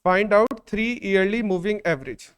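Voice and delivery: repeating the dictation gently; slow dictation. Shown as a demonstration. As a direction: repeat it slowly for copying. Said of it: "मैं question लिखवा देता हूं".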